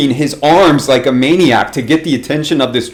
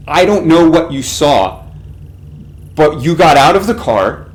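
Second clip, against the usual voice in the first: wife voiced higher, a touch of fear; frightened wife; 3 semitones higher than usual. Wife tells husband what happened, a little higher and afraid. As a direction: tremble through it like a scared wife.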